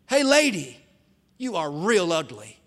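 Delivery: mocking bird voice, loud at first; parrot. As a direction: taunt like a cheeky talking parrot. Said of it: "with a smirk on his beak".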